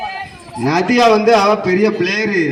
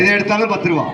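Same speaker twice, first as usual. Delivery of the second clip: singsong street hawker. Pretend. Hawker's ten-rupee cry.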